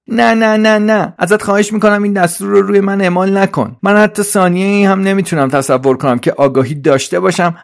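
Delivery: high, loud, frantic robot helper; Trolley, pleading. Acted. Trolley begs Suzi not to impose the order, high pleading.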